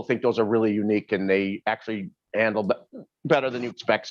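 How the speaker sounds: talking through hiccups; speech broken by hiccups. Real, not acted. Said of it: "I got the hiccups".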